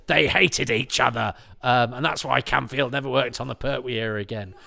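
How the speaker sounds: lightly hammed-up scandal; mock sensational gossip. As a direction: imitate a rumour being overblown. Mock gossip exaggerating an anecdote.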